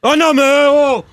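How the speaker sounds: high, exasperated protest; real angry outburst. Real, not acted. Host protests to his team about the staffer, angry outburst. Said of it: "Calme-toi, Apolline".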